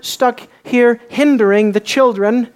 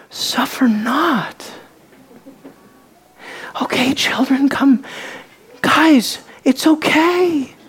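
gentle Jesus; 2 semitones higher, slower than usual. Pretend. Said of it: "Oh no, he was indignant".

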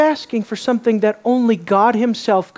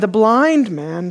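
"blind" drawn out with a pitch swing; stress on BLIND; slower than usual. Shown as a demonstration. Preacher points out who is speaking to Jesus, stressing "blind". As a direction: lean on "blind" in "the blind man". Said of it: "emphasis, the blind man said to him".

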